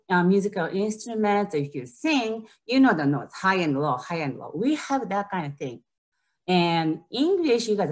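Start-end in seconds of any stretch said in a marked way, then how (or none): 3.3-4.0 demonstrating pitch. Shown as a demonstration. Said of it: "So it's like a high and low". 4.0-4.5 demonstrating pitch. Shown as a demonstration. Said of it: "So it's like a high and low".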